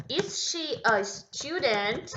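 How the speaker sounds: slow, rising "Is she a student?"; slow correct question. Shown as a demonstration. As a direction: model the inverted question. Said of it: "vai virar o quê?". (pergunta correta bem devagar)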